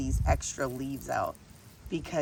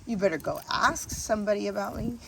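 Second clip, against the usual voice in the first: mock tough bragging; 2 semitones higher, 4 dB louder than usual. To viewers, jokingly boasting about gardening skills, mock tough. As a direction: puff up like a street-tough pro. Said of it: "I'm just kidding, you guys".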